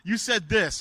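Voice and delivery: high, loud, eager "Yeah, man"; excited. Retold or imitated. Mark telling the pastor in the restroom that he changed his life. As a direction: gush it like a grateful young guy. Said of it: "he's like".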